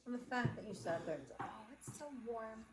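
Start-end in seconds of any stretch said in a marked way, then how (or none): 1.4-2.7 slow, softer imitation of snug bliss; slow, quiet teasing mimicry; mock cosy gloating. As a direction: draw it out softly, mimicking a gloater.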